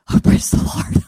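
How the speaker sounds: breathless praise. Retold or imitated. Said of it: "And I was like".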